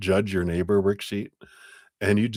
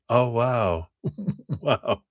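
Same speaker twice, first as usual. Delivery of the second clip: amazed laugh; 5 semitones higher, slower than usual. Retold or imitated. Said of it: "they're just like".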